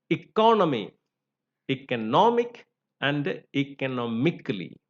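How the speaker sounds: "Economy" on -CON-, "economic" on -NOM-, "economically" on -MIC-; shifting stress. Shown as a demonstration. Teacher distinguishing word forms, shifting stress. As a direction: move the stress later with each form from "Economy" to "economically". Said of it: "distinguish the difference between these".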